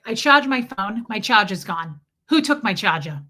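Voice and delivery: imitated New York griper; lightly put-on New York accent. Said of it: "I live in New York".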